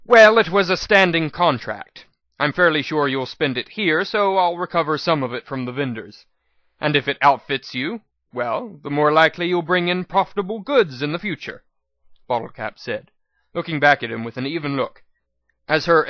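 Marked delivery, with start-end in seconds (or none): 0.0-11.6 louder, cool businesslike merchant voice; shrewd merchant mare. Acted. Manager mare corrects the modest mayor, coolly businesslike. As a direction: press the point like a sharp trader. Bottlecap's held character voice.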